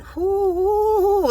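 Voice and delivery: long, high, loud whoops; ecstatic whooping. Real, not acted. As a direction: whoop with overwhelmed delight. Exclaims over how the hug feels.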